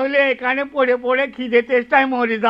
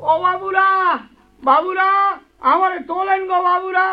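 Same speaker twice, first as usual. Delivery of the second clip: tearful pleading; 2 semitones higher than usual. Acted. Man in hole cries for help.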